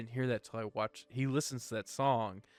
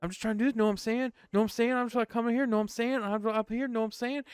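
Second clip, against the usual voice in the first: higher, repeating know I'm saying in a rising lilt; a lightly hammed-up wannabe gangster, much higher; wannabe rapper impression; 11 semitones higher, 5 dB louder, faster than usual. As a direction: play the try-hard trailer park rapper. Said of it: "white dude ... trying to be a rapper".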